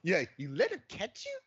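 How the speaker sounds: high incredulous question. Retold or imitated. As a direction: imitate him dropping the act, voice going up. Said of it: "his voice is higher".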